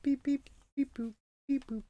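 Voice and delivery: robot beeps in a high, soft voice. Pretend. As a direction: beep like a little robot. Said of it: "The robot will beat ya".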